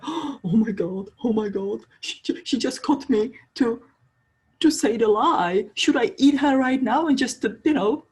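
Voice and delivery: high, loud panicky rush of questions; panicked wolf. Acted. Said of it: "it goes into the panic".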